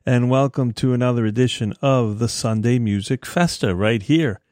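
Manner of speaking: slightly reedy, thin voice; a touch of reediness in the voice. Real, not acted. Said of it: "my voice sounds a little reedy".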